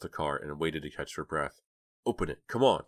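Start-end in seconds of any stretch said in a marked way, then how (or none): 2.1-2.8 higher, insistent demand. A narrator's reading. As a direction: demand it impatiently, voice lifted. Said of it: "Dina demanded".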